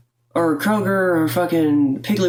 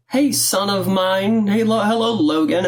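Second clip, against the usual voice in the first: mock-corny mom greeting, pitched up and drawn out; slow, higher, put-on fond hello; 4 semitones higher, slower than usual. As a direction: imitate a parent laying it on thick. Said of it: "this corny shit".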